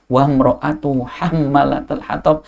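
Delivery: very slow chanted Arabic; slow Quranic recitation. Acted. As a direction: draw out each word in recitation.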